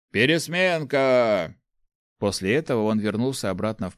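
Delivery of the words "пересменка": slow, louder called-out word; loud announcement. Acted. Student announcing shift change to the queue, loud. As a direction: call it across the yard. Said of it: "громко объявил".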